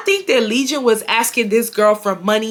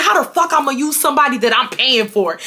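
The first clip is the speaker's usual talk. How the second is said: imitating angry ex; 4 semitones higher than usual. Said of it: "that's how he's talking to me".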